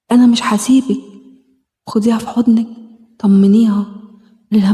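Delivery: gentle self-help meditation guide; guided healing exercise. Acted. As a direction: talk her gently through the inner-child exercise. Leads a self-hug healing exercise.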